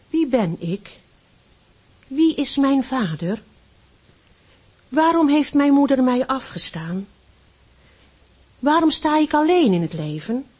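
anguished questions. Acted. Lonely boy writing in his notebook, questions rising in anguish.

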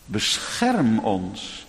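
slow, solemn recital of a hymn verse; a preacher quoting the rhymed Lord's Prayer; recited hymn verse. Acted. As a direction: lay each line down slowly. Sung verse recited slowly.

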